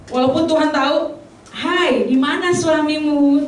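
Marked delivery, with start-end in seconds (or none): 1.5-3.5 coded gentle question. Acted. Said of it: "Tuhan pasti pakai kode-kode".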